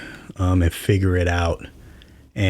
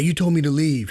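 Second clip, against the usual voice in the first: indignant; 9 semitones higher than usual. Retold or imitated. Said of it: "I was like".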